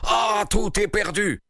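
high, slow wail of despair; king in dismay, drawn out; dismayed outcry. A narrator's reading. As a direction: lament it, pitch leaping up. King learns all is lost.

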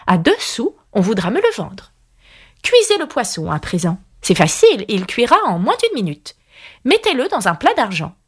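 lilting recitation with leaping pitch; riddle verse recital. A narrator's reading. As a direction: recite it as a queen's playful riddle. Recites the White Queen's riddle poem. (comptine-devinette récitée)

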